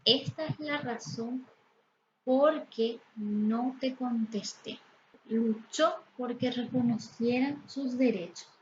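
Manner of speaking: slow, careful example read; slow example sentence. Shown as a demonstration. Teacher slowly reads an example with "por qué". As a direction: let the students hear each word. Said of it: "Por ejemplo".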